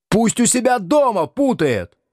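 high shrill furious cry; raging. Acted. Надя бушует на мужа из-за гостя, яростно и высоко. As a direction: rage at him in a high voice. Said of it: "бушевала Надя".

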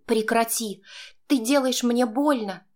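high pained woman's cry; wincing woman in pain. A narrator's reading. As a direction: she winces and begs him to stop. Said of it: "поморщилась она".

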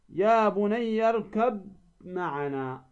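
slow recited "يا بني اركب معنا", ب of اركب merged into م; merged recitation. Shown as a demonstration. Teacher models a Quran phrase for students, merged recitation. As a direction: chant "اركب معنا" slowly as "irkam-ma'ana". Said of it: "تدغم الباء في الميم".

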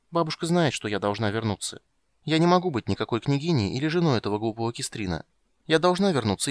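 put-on high childish insisting; a girl set on going home; determined little girl. Ciri to Geralt, high and stubborn. Ciri's voice.

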